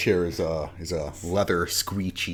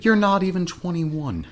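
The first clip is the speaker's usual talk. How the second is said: excited; 11 semitones higher, 6 dB louder than usual. Real, not acted. Teasing exclamation.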